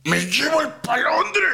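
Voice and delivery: high, sudden yelp of alarm; sudden excited outburst. Pretend. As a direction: blurt it out in a high burst. Sudden outburst mid tutorial.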